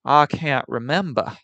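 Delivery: slow, lazy Southern drawl; Southern accent. Retold or imitated. Streamer imitating a film villain, slow Southern accent. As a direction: drag it out like a plantation gentleman. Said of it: "a sort of non-neurotic southern accent".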